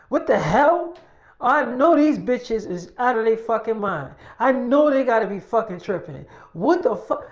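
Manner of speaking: imitating someone flipping out over a video; acted outrage. Mother sees girl with her baby online, outraged. Retold furious reaction to posted video.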